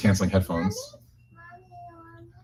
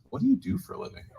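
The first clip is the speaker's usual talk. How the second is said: much higher, teasing stranger's question; mock chirpy question; 6 dB quieter, faster than usual. Imam mimicking the nosy seatmate's question, high and mocking.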